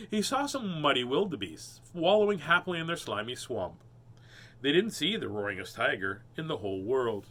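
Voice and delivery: put-on storybook narration for kids; reading a picture book aloud. A narrator's reading. Reading to children on a livestream, storybook voice. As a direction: read it like a bedtime picture book.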